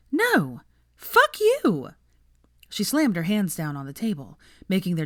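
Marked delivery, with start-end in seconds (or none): 0.1-1.9 high, loud yell of rage; furious shout. Acted. Hermione screaming at Malcolm in fury. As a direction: explode at him.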